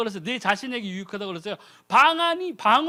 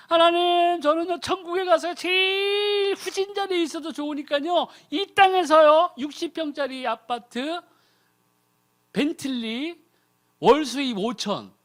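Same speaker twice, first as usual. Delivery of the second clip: greedy prayer; 4 semitones higher than usual. Retold or imitated. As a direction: shout your wish list at God. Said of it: "이렇게 기도하는 거예요".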